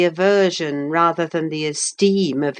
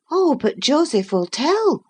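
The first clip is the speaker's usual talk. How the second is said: put-on higher, lightly girlish voice; young woman voice; 10 semitones higher than usual. A narrator's reading. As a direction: voice Catherine a touch higher. Catherine voiced high.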